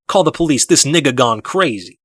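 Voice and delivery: hammed-up cry for the police; mock alarmed bystander. Sean imitating people panicking at his anger, mock alarmed shout. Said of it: "they'll be like".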